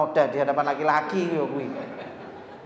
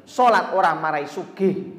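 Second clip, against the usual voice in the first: boss's mocking line; 4 dB louder than usual. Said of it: "Tuh, kata-kata dia pertama".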